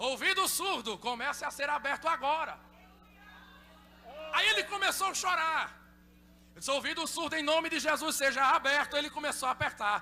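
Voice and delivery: loud, climactic healing preaching; fiery preaching. Real, not acted. Preacher retells a healing to the congregation, shouting. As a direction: build to shouting praise.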